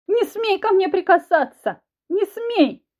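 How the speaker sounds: high, loud, slow frantic shout. Acted. Wife shouts at the husband not to touch her, high and loud. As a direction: shout him away.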